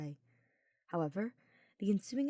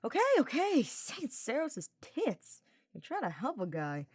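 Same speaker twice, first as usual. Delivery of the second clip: grumbling; 7 semitones higher, 3 dB louder than usual. Acted. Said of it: "Sylvain grumbled".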